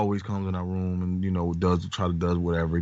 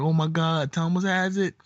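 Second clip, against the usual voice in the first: panicked sister; 9 semitones higher than usual. Retold or imitated. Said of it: "And she was like".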